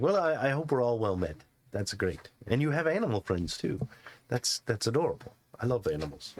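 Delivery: put-on a gentle old hermit charmed by the animals; old man NPC.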